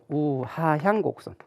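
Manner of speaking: 또박또박 강조. Shown as a demonstration. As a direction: stretch each syllable of "우하향" slowly for students. Teacher spells out the curve's name. ("우하향"을 한 음절씩 길게 늘여서)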